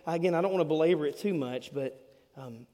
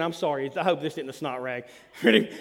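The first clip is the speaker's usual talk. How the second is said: ordinary talk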